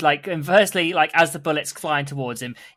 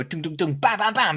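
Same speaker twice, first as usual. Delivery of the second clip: dung-dung thuds rising into higher bam-bams; imitated shooting noises; 3 semitones higher, 3 dB quieter than usual. Giving them plates to shoot out the sky, imitated noises. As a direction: mimic plates launched, then shot down.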